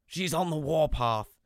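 high, bright fatherly phone voice; doting dad answering the phone; cheery dad. Retold or imitated. Dad voiced, mock alarm.

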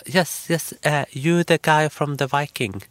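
high, eager fan voice; excited fan. Retold or imitated. Fan woman recognizing the Viking actor, high and eager. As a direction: gush like a starstruck fan.

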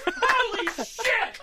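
loud, high-pitched crowd astonishment; hammed-up awestruck yelling; mock amazement. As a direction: imitate a blown-away audience shouting. Mimics amazed crowd after screaming.

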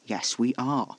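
tense, forced-out contradiction; ground out. A narrator's reading. Casper insisting they are in danger, grinding it out. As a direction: grind the words out. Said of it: "Casper ground out".

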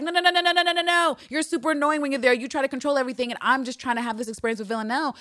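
high, rapid refusal; exasperated Eve. Retold or imitated. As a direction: shoo him away. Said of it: "And Eve is like".

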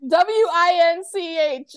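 deliberate high-pitched spelling. Shown as a demonstration. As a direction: spell each letter out slowly for someone who misheard. Spelling out a misheard word.

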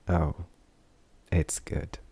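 whispered through a yawn. A narrator's reading. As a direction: say it mid-yawn. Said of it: "grinned through a wide yawn".

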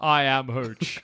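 slow, lightly voiced dog introducing itself; Hooch the dog. Cop's dog stating its name, slow and lightly voiced. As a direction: say it slowly as the dog.

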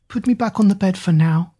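high, weary commanding queen; frail queen. Acted. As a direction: order it weakly. Frail queen orders servant.

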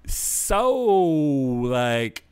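high, breathy mock girly gush; man doing a woman's voice. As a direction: camp it up like the guest. Mocking woman in clip.

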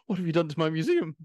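loud, high, outraged cry at the wreckage; outraged curator. Acted. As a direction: blast it at the thieves, appalled. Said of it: "he's like".

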